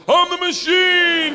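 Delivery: put-on high, long drunken-boast yell; triumphant shout. Student drinking all night with gangsters, triumphant shout. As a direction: holler the catchphrase, stretching it out high. Only phrase he knows, yelled.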